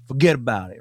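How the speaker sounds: slightly exaggerated Northeast Italian-American accent; a touch of Sopranos-style Italian-American. Shown as a demonstration. Host showing off his Italian-American upbringing, Italian-American accent. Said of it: "some of my inflections are that way".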